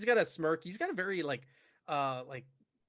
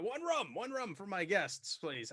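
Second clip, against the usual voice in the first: calling to server; 5 semitones higher, slower than usual. Acted. Larkin calls to server.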